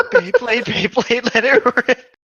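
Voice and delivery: excited Beyblade chant; hyped catchphrase. Retold or imitated. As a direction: shout it like an anime battle cry. Quoting Beyblade show catchphrase.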